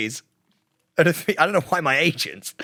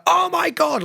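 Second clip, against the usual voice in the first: mock freak-out; 14 semitones higher than usual. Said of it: "they are freaking out".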